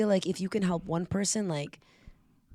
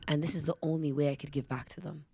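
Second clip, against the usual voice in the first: tearful whisper; 4 dB quieter than usual. Retold or imitated. Girl's tearful confession.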